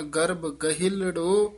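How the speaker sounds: ਗਹਿਲੜੋ held with a rising tune and a pause after it; pause after phrase. Shown as a demonstration. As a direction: stop briefly after ਗਹਿਲੜੋ. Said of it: "ਇੱਥੇ ਵਿਸਰਾਮ ਹੈ".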